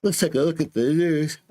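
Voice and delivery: said through a yawn. Real, not acted. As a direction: yawn mid-sentence. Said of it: "I keep yawning".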